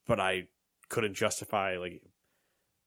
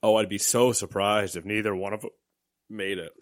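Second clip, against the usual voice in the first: mock amazed, dripping sarcasm; sarcastic; 4 dB louder than usual. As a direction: fake surprise, clearly not meant. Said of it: "Sarcasm, folks".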